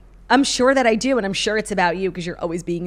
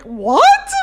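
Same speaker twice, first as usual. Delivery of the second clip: laughing shock; 7 semitones higher, 8 dB louder than usual. Retold or imitated. Shocked reaction to celebrity.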